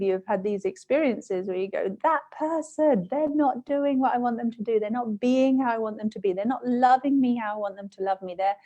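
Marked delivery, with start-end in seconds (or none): 2.0-8.6 higher, slowed mock complaining; mock grievance. Mimicking how we blame others, a hint of whine. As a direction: act out the aggrieved inner voice. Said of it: "I'm dramatizing this a little bit".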